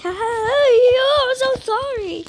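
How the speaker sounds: high, slow laughing sorry; laughing apology. Real, not acted. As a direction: giggle through the apology. Laughing apology to game character.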